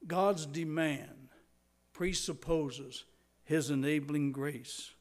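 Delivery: slow and deliberate, weighing each word of "presupposes"; slowly. Shown as a demonstration. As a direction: spell out the point word by word. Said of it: "Let me say it slowly".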